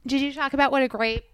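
talking with food in mouth; words around a bite of food; chewing while talking. Real, not acted. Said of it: "I'm talking while I'm eating".

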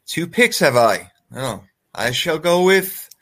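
put-on, drawn-out British accent. Joking with co-hosts over fantasy picks, mock British accent. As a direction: play at being British while picking. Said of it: "Are we British now?".

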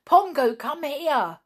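high, urgent shouted order. A narrator's reading. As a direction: call off a misbehaving animal, loudly. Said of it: "shouted Nobby".

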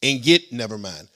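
loud, hyped-up fake commercial pitch; chipper 1950s ad. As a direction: sell it like an old radio ad. Reads a mock sponsor ad.

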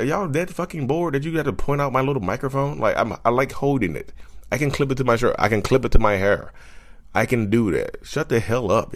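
high, exasperated rant; a high, exasperated rant at commenters; exasperated outburst. Real, not acted. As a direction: vent at them, pitch up. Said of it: "that little outburst".

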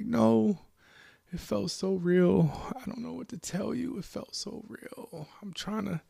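upset, breath catching between phrases; crying protest. Acted. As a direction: plead that it was real, close to tears. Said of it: "I'm crying, I'm sobbing".

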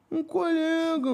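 high, slow innocent whine; innocent dodge. Retold or imitated. Son dodging his mother, high and slow. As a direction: stall her, playing innocent.

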